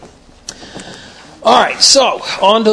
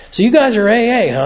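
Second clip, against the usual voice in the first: curious golf starter; 6 semitones higher than usual. Retold or imitated. Golf starter asks the AA guys, lightly voiced curious tone. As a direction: lightly play the starter poking at the golfers. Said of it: "and he goes".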